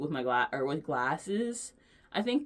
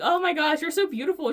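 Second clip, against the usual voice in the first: much higher and louder, delighted; gushing reply; 12 semitones higher, 8 dB louder than usual. Retold or imitated. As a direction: gush right back at her. Her gushing reply to clerk.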